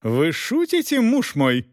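high, shocked lady's voice, words drawn out; a spoilt wife who can't believe her eyes; incredulous high female voice; disbelieving noble lady. A narrator's reading. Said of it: "не верила Элеонора Августа".

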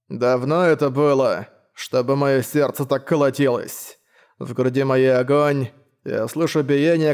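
slow, lisping knight voice; slushy lisp. Acted. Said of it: "пришепетывал рыцарь".

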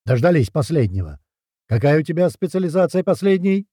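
parade-ground jab at the newcomer; booming command voice. A narrator's reading. Sergeant taunting the last recruit in a booming voice. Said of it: "зычным командным голосом".

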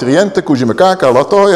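mock tongues. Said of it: "En dan gaat iemand".

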